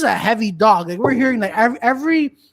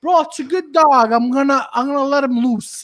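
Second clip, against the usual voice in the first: cousin; 4 semitones higher than usual. Retold or imitated. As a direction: casually shrug it off. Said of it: "Bro, is your dog supposed to".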